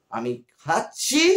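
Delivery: খাচ্ছি said slowly with a rising end; careful pronunciation. Shown as a demonstration. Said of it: "তিনটে উচ্চারণ আলাদা".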